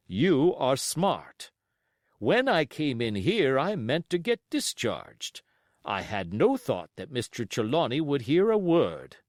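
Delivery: firm, blunt captain; plain-spoken sea captain; lightly voiced captain. Captain replies to doctor.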